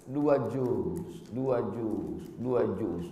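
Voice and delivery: soft repetition. Acted. Preacher softly repeating to parents, quiet echo. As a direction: let each dua juz fall away gently.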